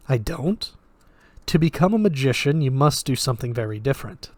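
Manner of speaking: put-on flat, lightly Russian-accented voice; detached, with a hint of Russian; slight Russian accent. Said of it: "slight Russian accent".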